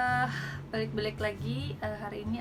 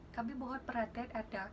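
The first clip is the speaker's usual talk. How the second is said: flight attendant announcement; 4 dB quieter than usual. Shown as a demonstration. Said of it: "tahan napas di perut".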